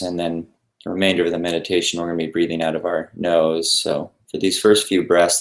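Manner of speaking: unhurried guidance with long pauses between phrases; guided meditation. Real, not acted. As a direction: lead listeners gently through breathing, leaving space after each instruction.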